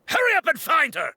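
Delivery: urgent shouted order; shouting orders. Acted. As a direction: call out to the squad to hurry. Guards calling out in search.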